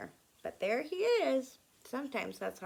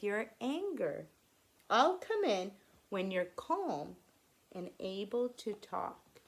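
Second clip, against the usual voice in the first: 穏やかな祖父; 2 semitones lower than usual. Acted. Grandfather sends upset boy off calmly.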